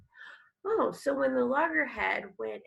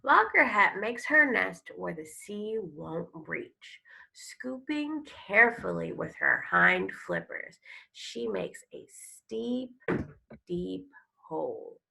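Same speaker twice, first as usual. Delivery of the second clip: storybook read-aloud. Acted. Teacher reading a turtle book to her class, expressive storytelling. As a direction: read it like a nature story for kids.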